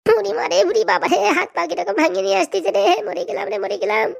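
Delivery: hammed-up moaning lament over the beating; mock-wail like you're dying; wailing in pain. Beaten man moaning to his mother about his pain in a hammed-up wail.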